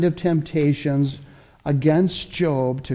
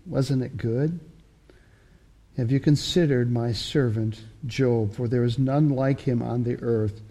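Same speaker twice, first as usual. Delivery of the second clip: softer, hushed voice of a proud father; proud gentle God; 2 semitones lower, 3 dB quieter than usual. Acted. God telling Satan about Job, soft and proud. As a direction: savour each word about your servant.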